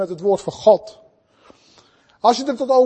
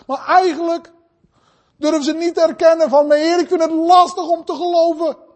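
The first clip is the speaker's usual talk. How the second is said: emphatic, raised sermon delivery; impassioned preaching; 6 semitones higher than usual. Real, not acted. Preacher urging brothers and sisters, impassioned. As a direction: preach it out with conviction.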